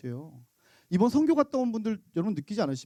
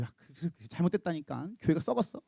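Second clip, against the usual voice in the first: 수군거림; 3 semitones lower, 6 dB quieter than usual. Retold or imitated. Gossip, hushed.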